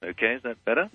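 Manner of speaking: distant, faint phone audio; speaking away from the phone; phone held away. Real, not acted. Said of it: "a little bit".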